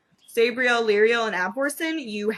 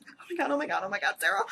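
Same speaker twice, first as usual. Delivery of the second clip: retold fangirl gushing; 3 dB quieter, much faster than usual. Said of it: "trying to control my fangirlness".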